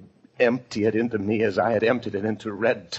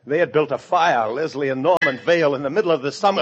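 high, loud, panicked insistence; horrified realization; 6 semitones higher, 5 dB louder than usual. Acted. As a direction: let the horror push your voice up. Realizes they mean to burn him.

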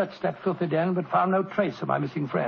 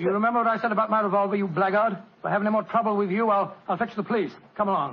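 stern threat; faster than usual. Acted. Watson threatens proprietor.

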